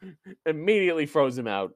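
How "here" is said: loud, high, drawn-out mock bellow; mock angry yell. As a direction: bellow it slowly, playing an outraged boss. Co-host echoes boss throwing him out.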